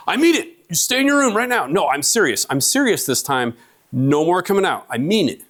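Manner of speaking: a worn-out dad at bedtime; exasperated dad. Retold or imitated. Dad begging the kids to stay in bed, high and exasperated. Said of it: "Never say that to your kids".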